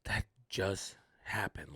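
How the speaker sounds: soft, slow whisper; stunned whisper. Retold or imitated. Comic driving home after the gig, stunned whisper. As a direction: breathe it out in disbelief. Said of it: "drove back home like".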